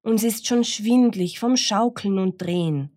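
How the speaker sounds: dizzy birds calling for rescue. Acted. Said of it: "riefen Hahn und Henne".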